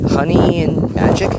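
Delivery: amused. A narrator's reading. Hiro querying their nicknames, amused. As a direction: draw out the nicknames, questioning. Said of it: "Hiro questioned with amusement".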